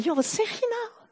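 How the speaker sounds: high, startled "what are you saying?"; the preacher retorting to a gloomy parent, in shock; astonished retort. Retold or imitated. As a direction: pull back in disbelief. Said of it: "Ik zei".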